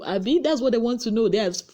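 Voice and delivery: ordinary delivery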